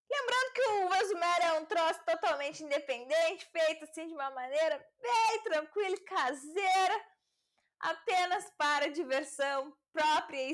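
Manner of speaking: shouting. Real, not acted. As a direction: speak up as if the neighbors could hear. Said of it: "eu tô gritando".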